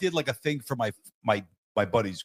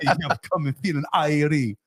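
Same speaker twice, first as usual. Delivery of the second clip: badly faked Caribbean lilt, higher; bad Caribbean accent; 5 semitones higher than usual. Podcast guest teasing his co-host, bad Caribbean accent. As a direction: play up a corny Caribbean accent. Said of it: "every time I hear you with a, a Caribbean accent".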